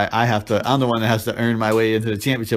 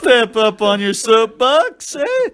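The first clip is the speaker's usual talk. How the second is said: jokey put-on Cockney accent, pitched higher; hammed-up Cockney, higher than his own voice; 9 semitones higher, slower than usual. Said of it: "It's a Cockney".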